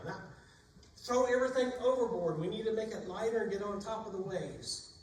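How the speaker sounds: frantic sailors shouting to lighten the ship; panicked shout. Acted. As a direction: yell orders over the storm.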